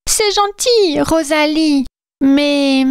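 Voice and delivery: high-pitched, hesitant reindeer; sweet reindeer voice that trails off on mais. Acted. Madame Reine gently turns down the fairy, high voice. Reindeer character answers Rosalie.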